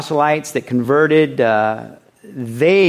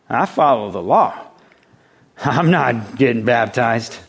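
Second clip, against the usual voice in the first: pious Jew; 2 semitones lower than usual. Retold or imitated. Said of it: "The pious Jew was like".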